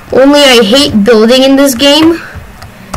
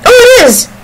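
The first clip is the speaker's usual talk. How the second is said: surprised; 12 semitones higher than usual. Real, not acted. Surprised at the magnetic key card.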